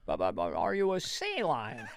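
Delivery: Biden. Retold or imitated. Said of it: "I'm going into Biden now".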